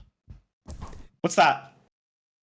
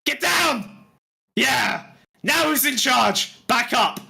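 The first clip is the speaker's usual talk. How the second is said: triumphant demon fighter; 2 semitones higher than usual. Acted.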